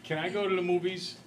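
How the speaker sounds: put-on sweet child. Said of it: "Go up to Mom and say".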